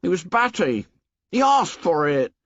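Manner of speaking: high shrill excuses; shrill anxious boy. A narrator's reading. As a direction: blame the victim, voice climbing. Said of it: "His voice shrilled again".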